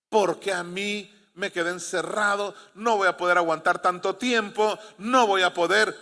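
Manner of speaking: hammed-up trapped victim's protest; acted panic. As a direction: imitate someone losing self-control. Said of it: "Cuando no hay fruto del Espíritu es".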